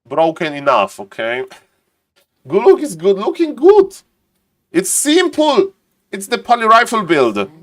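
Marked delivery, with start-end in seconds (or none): 2.5-7.5 a clearly higher caster voice that stays up; odd put-on voice. Real, not acted. Streamer stuck in a put-on voice after the spell name, higher pitched. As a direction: slip into a strange lifted voice without noticing. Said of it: "I don't know why I'm talking like that".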